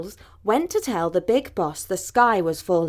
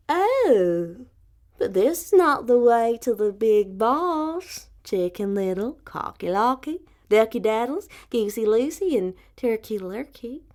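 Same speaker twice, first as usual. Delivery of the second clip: sly fox; 3 semitones higher than usual. Acted. Foxy Woxy misleads them.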